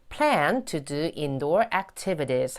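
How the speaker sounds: slow "plan to do indoor activities", closing the list; list-final fall on "plan to do indoor activities"; final falling tune. Shown as a demonstration. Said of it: "내려주시면 되겠죠".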